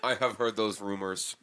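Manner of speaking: a hint of a stone-faced Putin; mock Putin reply. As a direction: drag it out like a cagey Putin. Repeating the Putin impression.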